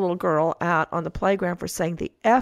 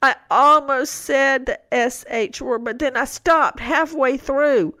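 put-on higher, slow pleading child voice; teary little girl; 5 semitones higher, slower than usual. Mom imitates her daughter confessing the S H word, slow teary whine. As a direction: draw it out like a kid on the verge of tears. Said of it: "she almost starts crying".

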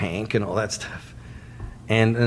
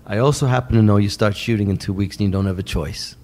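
lightly imitated calm New York manager; matter-of-fact leverage, a hint of New York; Shep Gordon; 2 semitones lower than usual. Manager cornering filmmaker before the shoot, calm. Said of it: "He talks like this. Very, very deep".

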